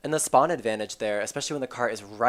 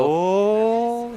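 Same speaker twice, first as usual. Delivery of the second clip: sudden high excited gasp; 9 semitones higher, 7 dB louder than usual. Real, not acted. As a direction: jump up in surprise. Caster reacts to big play.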